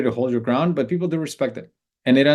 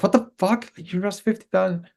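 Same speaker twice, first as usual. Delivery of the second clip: put-on girlfriend's disbelief pitched much higher; shocked outburst; 8 semitones higher than usual. Girlfriend hearing of a fifty thousand dollar loss, pitched-up shocked outburst. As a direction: shoot the voice way up in disbelief. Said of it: "It's like".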